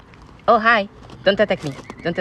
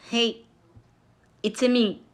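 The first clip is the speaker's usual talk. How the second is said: small, soft, hesitant reply; shy; 3 semitones higher, 7 dB quieter, slower than usual. Pretend. Him answering a fan who greets him, shy and soft. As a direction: answer a fan shyly and quietly. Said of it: "I'm very shy".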